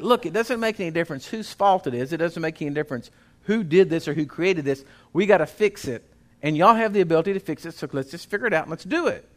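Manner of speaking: rally the crew to fix it; firm pep talk. Retold or imitated. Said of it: "I'm forever going around telling everybody".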